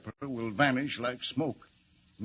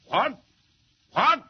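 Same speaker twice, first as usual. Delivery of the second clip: shocked what; 8 semitones higher, 6 dB louder than usual. Acted. Shocked reply on the phone.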